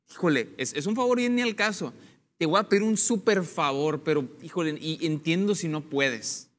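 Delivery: apologetic, softened request; humble favor asking. Shown as a demonstration. Asking a friend a big favor, apologetic and humble. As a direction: ask sheepishly, almost apologizing. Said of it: "o damos así la".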